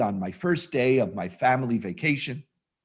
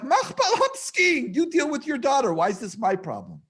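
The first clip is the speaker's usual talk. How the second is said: exasperated inner rant; 12 semitones higher than usual. Retold or imitated. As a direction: whine it like you've had enough.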